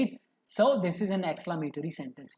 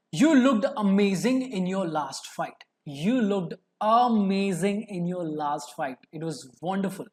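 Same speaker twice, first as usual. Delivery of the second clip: admiration. Shown as a demonstration. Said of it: "a strong feeling of admiration".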